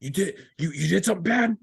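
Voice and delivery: calm him down like a forgiving squad leader; imitating a squad leader easing a drunk private's guilt; reassuring corporal. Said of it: "the corporal's like".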